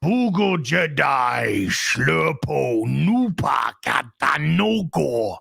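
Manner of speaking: low, booming alien gibberish; lightly voiced Jabba the Hutt, slow and low; a hint of a big alien gangster; mock Huttese. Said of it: "and then he'll, he'll be".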